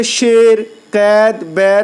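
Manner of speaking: "شیر، قید، بیر" with an e sound, never ee; open e vowel. Shown as a demonstration. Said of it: "جو کھینچ کر نہ پڑھی جائے".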